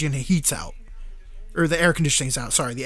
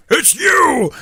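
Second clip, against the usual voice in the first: higher, louder triumphant accusation; mock accusing shout; 9 semitones higher, 6 dB louder than usual. Hero unmasking the guitar man, loud accusing shout. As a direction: nail him with the discovery. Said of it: "He's like".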